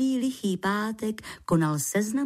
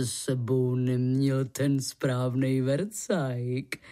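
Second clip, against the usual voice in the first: lightly voiced low male character; man's quoted words; 5 semitones lower than usual. A narrator's reading. František explains about the tools he lacks, lightly voiced low. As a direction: quote him with a hint of a lower voice. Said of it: "jak řekl".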